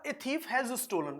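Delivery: each word drawn out slowly for the board; slow teacher dictation. Shown as a demonstration. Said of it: "तो अब मैंने बोला".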